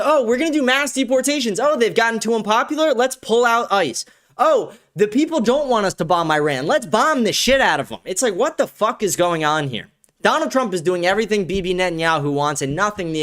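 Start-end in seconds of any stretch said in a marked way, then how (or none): 0.0-8.0 higher, lightly mocking politician voice; a hammed-up flip-flopping official; mocking the administration. Host mimics the administration reversing promises, mock voice. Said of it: "went back on every promise".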